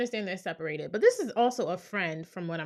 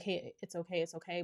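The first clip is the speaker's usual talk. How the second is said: soft reassurance; 5 dB quieter than usual. Retold or imitated. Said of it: "affirmed her to say".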